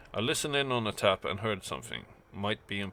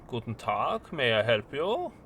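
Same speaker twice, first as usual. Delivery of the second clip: sing-song nasal woman; 2 semitones higher than usual. Acted. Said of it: "in a sing-song tone".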